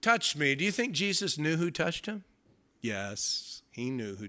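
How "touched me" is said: slow deliberate question. Retold or imitated. Jesus to the crowd, slow knowing question. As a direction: ask it slowly, knowingly. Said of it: "When Jesus said".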